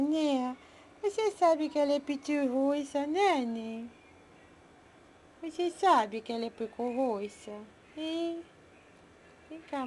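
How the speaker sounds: put-on high sing-song baby talk to pets. Owner cooing to her pets in baby talk. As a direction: coo at the little animals like a doting mom.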